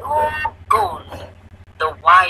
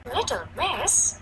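higher, soft, friendly woman; happy voice; 5 semitones higher, 6 dB quieter than usual. Acted. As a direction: address a little girl sweetly. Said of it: "said the woman in a happy voice".

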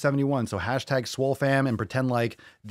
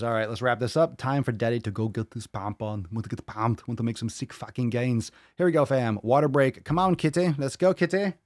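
hyped gym bro. Pretend. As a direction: pump the cat up like a workout buddy. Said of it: "Water Break V says".

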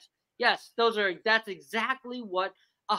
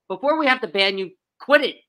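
louder and rising into "quit it"; mock scold, getting louder; stern warning; 6 dB louder than usual. Host scolding players jokingly.

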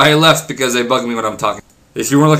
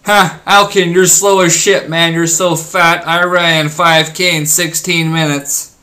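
mock commenter; 4 semitones higher, 3 dB louder, slower than usual. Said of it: "I read a comment".

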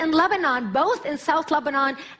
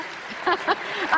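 breathy laugh; 7 semitones higher, 3 dB quieter than usual. Real, not acted. Laughs at own joke.

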